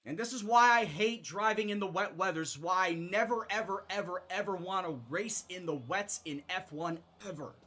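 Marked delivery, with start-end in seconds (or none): 0.0-5.8 loud, heated complaint; angry rant. Real, not acted. Frustrated racer ranting at wet track, loud and heated. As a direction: vent it at the game. Ranting after spinning in rain.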